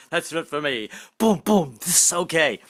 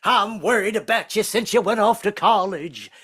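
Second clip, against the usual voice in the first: higher, slow sermonising Baptist preacher; lightly voiced preaching grandfather; 5 semitones higher, slower than usual. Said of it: "give me personal sermons".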